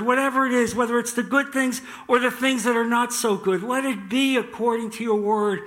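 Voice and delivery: heartfelt spoken surrender in prayer; earnest prayer. Acted. Models a prayer to God.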